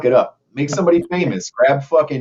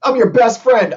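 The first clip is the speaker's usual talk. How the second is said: put-on childish voice; 12 semitones higher, 4 dB louder than usual. Childish opposite day voice.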